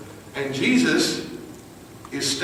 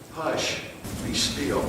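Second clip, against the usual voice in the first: gentle command; 7 dB quieter, slower than usual. Acted. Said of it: "he just says".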